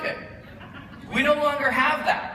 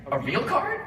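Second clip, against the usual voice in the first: high incredulous question; amazed disbelief; 8 semitones higher than usual. Retold or imitated. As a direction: pitch it up in disbelief. Stranger amazed by card.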